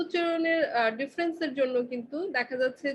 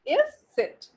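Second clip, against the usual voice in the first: "এস সেট" sung out much higher; ß demo; 12 semitones higher, slower than usual. Shown as a demonstration. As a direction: lift "এস সেট" up high playfully. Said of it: "just এস সেটই". (উঁচু সুরে "এস সেট")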